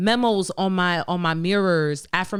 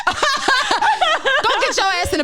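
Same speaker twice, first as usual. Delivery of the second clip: laughing; 9 semitones higher, 6 dB louder than usual. Real, not acted. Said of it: "bossing herself into self-care".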